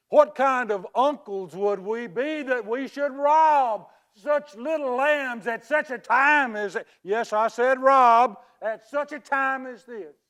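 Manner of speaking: loud, theatrical indignant oration; righteous indignation. Acted. Uncle protests to orphaned nieces that he would never rob them, indignant. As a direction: declaim it like an outraged uncle.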